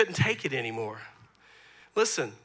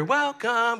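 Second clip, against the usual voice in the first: lighter, higher sing-song echo of a movie line; Moana voice; 5 semitones higher than usual.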